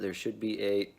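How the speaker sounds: out of breath, stalling midword; catching breath midword. Real, not acted. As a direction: run out of air partway through. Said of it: "sorry, lost my breath there".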